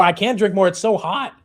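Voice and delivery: high, loud comic complaint; exasperated protest. Real, not acted. Streamer told to drink scalding coffee, exasperated protest. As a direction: protest loudly, pitch pushed right up.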